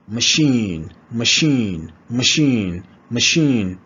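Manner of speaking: "machine" with a long ee; long E drill. Shown as a demonstration. Teacher drilling the long E. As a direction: lean on the held ee in "machine". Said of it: "the long E sound".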